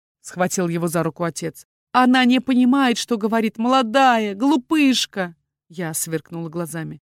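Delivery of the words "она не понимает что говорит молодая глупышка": urgent plea. A narrator's reading. Father begs for his daughter.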